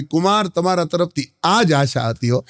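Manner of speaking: chuckling through the line; laughing sarcasm. Retold or imitated. Father-in-law thanks son-in-law, laughing. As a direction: laugh it out, pleased. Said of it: "સાસુનો ગોટો વળી ગયો".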